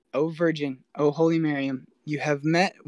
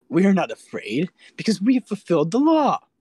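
defiant; 4 semitones higher, 6 dB louder than usual. Acted. Priests defy Pilate.

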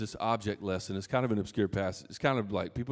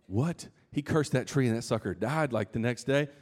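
mock astonishment. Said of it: "Peter is like".

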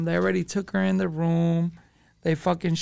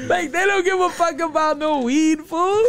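higher, louder amused disbelief; amused scoff; 9 semitones higher, 5 dB louder than usual. Real, not acted. Mocking his homie's weed worry, higher and louder. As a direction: scoff through leftover laughter.

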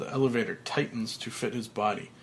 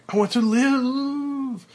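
high, loud, slow drawn-out yell; desperate yell; 13 semitones higher, 7 dB louder, slower than usual. Acted. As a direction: bellow it as he escapes. Bursting out of elevator.

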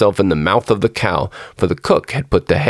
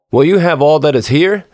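high-pitched storybook call; narrator's raised-voice holler, only slightly louder; bawling out; 6 semitones higher, 3 dB louder than usual. A narrator's reading. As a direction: call it out high, a mild bawl. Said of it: "called out as loud as he could bawl".

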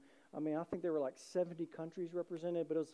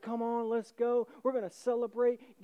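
higher, loud rallying call; rally everyone to celebrate; excited, raised voice; acted overjoyed father; 4 semitones higher, 5 dB louder than usual.

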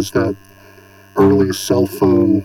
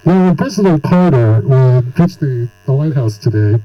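put-on old radio newscaster; 3 semitones higher than usual. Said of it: "like, a bad A M".

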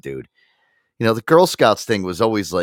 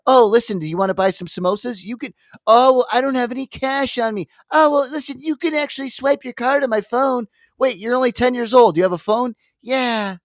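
put-on little girl voice; 4 dB louder than usual. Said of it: "And they're like".

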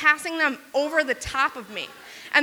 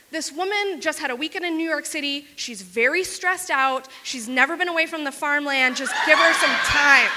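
announcing to everyone; 2 semitones higher than usual. Retold or imitated. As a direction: play the seatmate proclaiming it to the cabin. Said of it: "she announces to everyone around us".

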